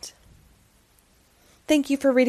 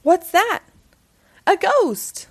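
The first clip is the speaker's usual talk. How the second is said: louder, higher startled alarm; frightened cry; 8 semitones higher, 4 dB louder, slower than usual. Acted. An animal spots the ghost, startled fright. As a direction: gasp it out in fright.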